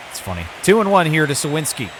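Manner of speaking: normal talking voice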